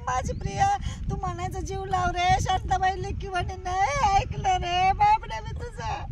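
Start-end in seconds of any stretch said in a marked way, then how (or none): 3.5-6.0 slow, sobbing regret; crying regret. Acted. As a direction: wail the confession slowly. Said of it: "आता तुला रडायला येते". (रडत, हळू पश्चात्ताप)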